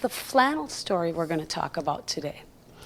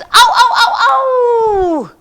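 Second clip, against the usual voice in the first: coyote yips; 10 semitones higher, 7 dB louder than usual. Shown as a demonstration. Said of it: "Howl with me, kids".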